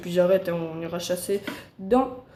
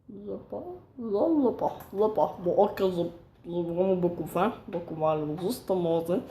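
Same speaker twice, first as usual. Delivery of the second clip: put-on cutesy baby talk. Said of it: "Petite voix de bébé".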